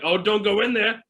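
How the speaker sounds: mock a moviegoer warning the character; mock heckler. Audience member mocking the movie, hammed-up warning. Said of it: "One person's like".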